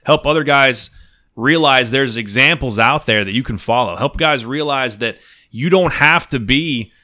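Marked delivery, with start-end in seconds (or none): 3.9-6.9 cracking up mid-sentence; fighting back laughter; trying not to laugh. Real, not acted. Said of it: "trying, trying to be serious".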